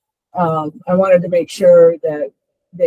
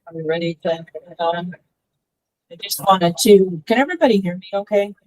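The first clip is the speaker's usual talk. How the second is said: underwater; faster than usual. Real, not acted. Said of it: "You sound like you're underwater a little bit".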